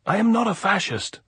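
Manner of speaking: very loud high desperate cry; desperate shout. A narrator's reading. Andres pleading with the sentries, desperate shout. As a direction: yell it up the slope. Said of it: "Andres shouted".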